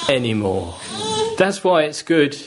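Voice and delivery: choked up on the words; tearful. Real, not acted. Preacher to congregation, near tears. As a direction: voice catching with tears, real.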